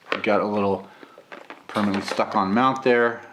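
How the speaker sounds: hoarse from a cold; rough, gravelly voice with a cold. Real, not acted. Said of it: "sorry for the bad cough or the gravelly voice".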